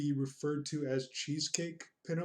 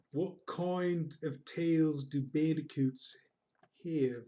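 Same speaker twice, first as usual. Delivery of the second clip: put-on Australian accent; slower than usual. Reprises the Australian safari voice.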